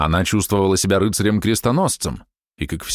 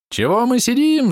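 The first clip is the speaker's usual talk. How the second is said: high squealing outburst, suddenly much higher; shrill squeal. A narrator's reading. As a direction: burst out squealing at the guests. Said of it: "завизжала вдруг миссис Рислинг".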